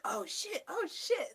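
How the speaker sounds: high, hushed little exclamations; retold impressed surprise. Retelling the first listen to a catchy song, impressed surprise. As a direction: act out getting hooked, squeaky and soft.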